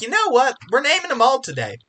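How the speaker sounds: high, loud, fast declaration; sudden burst of resolve. Retold or imitated. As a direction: announce it like a big decision. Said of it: "I'll just be like".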